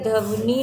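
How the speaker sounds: "ध्वनि" slowly broken as dhav-nee; wrong form demonstrated. Shown as a demonstration. Teacher rejecting a misspelling, "ध्वनि" slowly mispronounced dhav-nee. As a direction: say "ध्वनि" with a vowel before the v. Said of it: "नहीं होता है".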